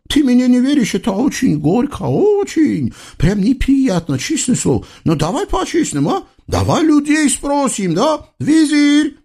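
high, singsong eastern tyrant voice; comic sultan. Acted. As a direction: play a pompous, childish sultan. (высокий певучий голос капризного султана)

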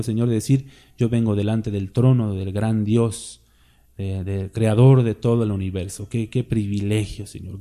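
a pastor's closing prayer. Acted. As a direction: pray it humbly before God.

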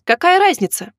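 flaring up. A narrator's reading. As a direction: snap it out in a sudden temper. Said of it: "вспылил он".

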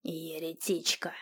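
hissed, slow spiteful whisper in an odd voice; offended friar. Acted. The offended friar hisses back at Runika. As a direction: hiss a hateful curse. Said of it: "обиделся вагабунд".

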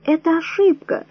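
high, shrieking cry of panic; hysterical cry. A narrator's reading. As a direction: lose your head and cry out. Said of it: "истерично закричала Вера".

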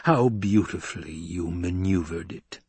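silky, insinuating praise; smooth, understated menace; purring Emperor. Acted. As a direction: purr it with mock admiration. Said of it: "the Emperor purred".

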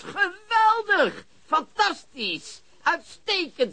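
high, slow, savouring each word of praise; delighted praise. Acted. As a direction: relish the good news, drawn out. Praising news on the phone. (opgetogen, hoog en langzaam)

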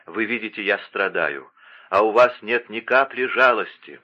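usual speaking voice

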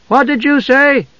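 put-on very high childlike demand; loud nosy question. A narrator's reading. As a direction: butt in eagerly at high pitch. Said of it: "Tasselhoff asked loudly".

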